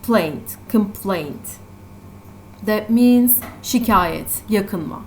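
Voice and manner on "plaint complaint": "plaint" alone, then "complaint" stressed on "plaint"; stress on second syllable. Shown as a demonstration. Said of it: "the stress part is the second syllable".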